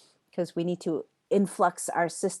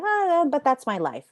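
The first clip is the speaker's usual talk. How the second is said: imitating a resigned student, higher and louder; mock defeated sigh; 8 semitones higher, 5 dB louder than usual. Teacher mimicking a student stuck in suffering, mock defeated. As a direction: sigh it out like someone giving up. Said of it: "kind of defeated and sad".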